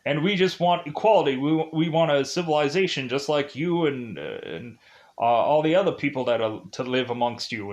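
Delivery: lightly put-on voice of a speechifying creature; mildly pompous creature voice, breaking off into laughter; brainy gremlin impression. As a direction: plead the creatures' case as a goofy intellectual gremlin. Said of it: "this gremlin is to just be massively intelligent".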